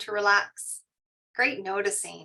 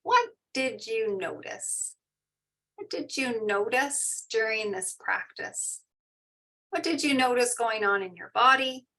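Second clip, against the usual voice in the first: gentle teacher's question. Shown as a demonstration. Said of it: "Our favorite question is".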